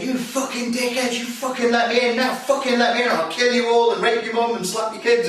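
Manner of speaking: hammed-up angry drunk at the door; mock yell. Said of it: "screaming and shouting and yelling at me".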